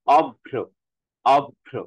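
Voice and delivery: অভ্র loud, split as "ob-bhro"; doubled consonant. Shown as a demonstration. Teacher shows the sound said twice, doubled consonant. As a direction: hold the b, then bhro, in অভ্র. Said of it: "দুইবার উচ্চারণ হচ্ছে".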